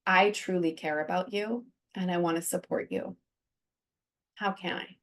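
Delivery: quiet, tender offer of support. Shown as a demonstration. Modelling what to say to a depressed friend, quiet and tender. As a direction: say it softly, like you mean it. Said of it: "saying something like".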